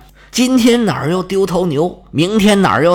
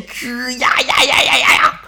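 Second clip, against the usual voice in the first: creaking bowstring; 6 semitones higher than usual. Retold or imitated. Storyteller imitating the bow drawn taut, creaking sound. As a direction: stretch the creak like a bending bow.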